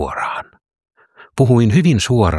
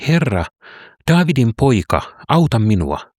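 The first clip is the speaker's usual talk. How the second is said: respectful plea; 5 semitones higher than usual. Acted. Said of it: "jos osaan puhutella häntä oikein".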